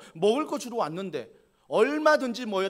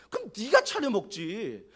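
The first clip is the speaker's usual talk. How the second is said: angry protest; 3 semitones higher than usual. Retold or imitated. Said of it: "저 같으면 뭐 화를 냈거든요".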